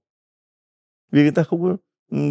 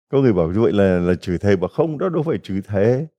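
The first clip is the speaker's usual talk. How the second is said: ordinary delivery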